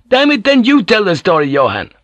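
loud, high, fed-up snap at a mate; exasperated outburst. Acted. Sailor snapping at his shipmate for interrupting, loud and exasperated. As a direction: burst out in irritation.

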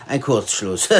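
said through a laugh. Acted. Police chief chuckles while joking about Yat's short circuits. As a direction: let the laugh break into the word. Chief mocks his mild colleague.

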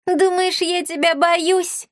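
high, slow, cocky challenge; defiant taunt. A narrator's reading. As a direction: dare her to try. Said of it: "с вызовом бросил Мисса". (с вызовом, высоко и медленно)

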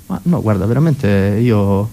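hesitant, trailing mock excuse; lightly acted timid denial; cornered schoolkid. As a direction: back down slowly before the bully. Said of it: "ti fermavano a ricreazione".

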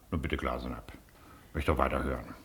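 hushed whisper to the clerk; whispered aside. Acted. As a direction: whisper it so the visitor won't hear. Aside to clerk during hearing. (geflüstert)

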